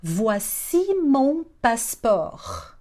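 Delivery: very slow, word by word; slow teaching demo. Shown as a demonstration. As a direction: give each syllable time for learners. Teacher models phrase slowly. (demonstração bem devagar)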